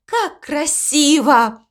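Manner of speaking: high, delighted call easing into admiration; excited calling out. A narrator's reading. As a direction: call out a happy surprise, high-pitched. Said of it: "крикнула мама Му". (восторженно, высоким голосом)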